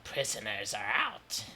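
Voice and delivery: low, nasal beholder voice; deep nasally voice. Acted. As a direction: speak deep through the nose. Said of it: "in a deep nasally voice".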